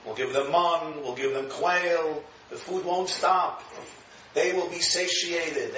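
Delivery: a lightly voiced calm God; calm reassurance. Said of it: "Hashem says".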